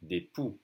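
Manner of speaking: "Des poux" ending on an open vowel; French "Des poux", no final consonant; silent X. Shown as a demonstration. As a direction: say "poux" without sounding the X. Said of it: "Again, we don't say the X".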